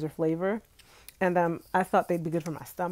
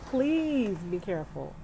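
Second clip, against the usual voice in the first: slower, gentle and sincere. Real, not acted. Repeats the plea softly.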